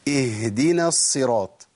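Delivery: slow "اهدنا الصراط" with the h breathed out; clear ha in recitation. Shown as a demonstration. Teacher recites the Fatiha example, clear ha. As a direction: recite "اهدنا" slowly, letting the h sound before d. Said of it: "عندنا في الفاتحة".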